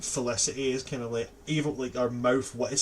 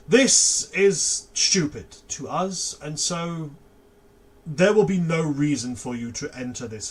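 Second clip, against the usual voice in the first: firm warning, building louder on the danger; stern professor; 4 dB louder than usual. Acted. Professor warning new students off the forest, firm and stern. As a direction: lecture the students like a strict professor.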